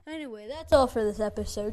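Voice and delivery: loud whispered outro; stage whisper the sign-off. Pretend.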